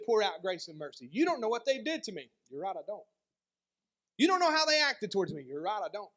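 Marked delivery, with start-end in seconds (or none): 1.1-2.3 hurt objection. Acted. Preacher voices a bitter objector. 4.2-5.4 raised, louder and higher, wounded insistence; hurt protest. Acted. Objector protesting to the preacher, wounded and loud.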